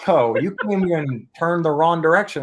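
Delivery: mock Wisconsin accent. Imitating a friendly Wisconsin local giving directions, in a light Wisconsin accent. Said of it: "the thick accent that it's like".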